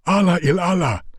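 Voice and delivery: a battered fighter thrilled at rescue; excited Afghan. A narrator's reading. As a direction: Yar Ali shouting out the news of the horses. Yar Ali rejoices over horses.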